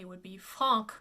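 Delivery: Franc with a hard K sound. Shown as a demonstration. Coach showing the wrong hard K reading. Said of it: "it would be a hard K".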